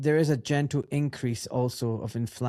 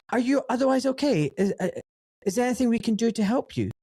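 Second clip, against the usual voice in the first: high-pitched mock concern; solicitous phone voice, pitched up; imitated concerned director; 9 semitones higher than usual. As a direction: imitate an official offering hollow help, voice raised. Director's show of concern, acted.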